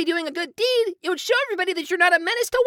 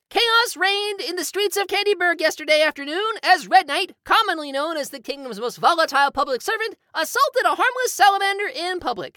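reading a newspaper article aloud; formal news report delivery. Acted.

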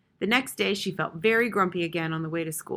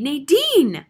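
high scream that fades at the end; loud, drawn cry tailing off; chilling scream; 8 semitones higher, 10 dB louder than usual. A narrator's reading. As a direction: scream the name, letting it die away. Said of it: "A chilling scream fading at the end".

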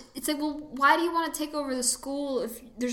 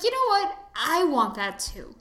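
mock eager agreement; 4 semitones higher, 3 dB louder than usual. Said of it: "And I'm like".

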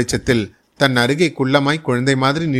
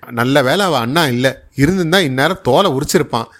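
fake scolding; 2 semitones higher than usual. Mother covers up to the neighbour with fake scolding. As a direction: fake the fuss so the neighbour loses interest. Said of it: "பொய்யாக அங்காளாய்த்து கொண்டாள் அம்மா".

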